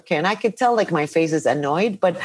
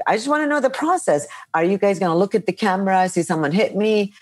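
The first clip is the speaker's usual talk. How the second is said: agitated demand; faster than usual. Retold or imitated. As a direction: rush it out, a touch fed up. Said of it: "I'm agitated and annoyed".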